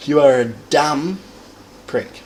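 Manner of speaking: "You are a dumb" lifted, "prick" trailing off; stress on DUMB. Shown as a demonstration. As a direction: hit "dumb" and let "prick" fall away. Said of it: "Emphasize the fact that you are dumb".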